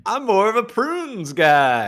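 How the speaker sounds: high, slow, laughing through it; nervous laugh. Real, not acted. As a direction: repeat it giggling nervously.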